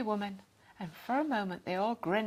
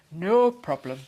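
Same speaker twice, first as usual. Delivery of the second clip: casual; 4 semitones lower, 8 dB louder than usual. A narrator's reading. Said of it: "he said again".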